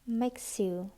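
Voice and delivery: "makes you" run together as one word; "makes you" with no gap between the words; linked sounds. Shown as a demonstration. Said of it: "Nối âm".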